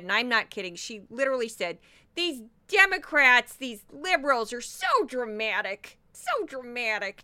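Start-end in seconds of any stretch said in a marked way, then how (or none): 2.1-7.2 lightly mimicked harsh, nasal pundit; Tammy Bruce. Podcaster quoting a Fox host on Democrats, mild mocking imitation. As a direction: put on a bit of pundit drama, punchy start. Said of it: "just like that".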